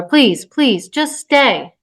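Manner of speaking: mildly urgent plea, rising on the end; pleading. Acted. Woman begs the toddler to stay, pleading. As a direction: beg a small child.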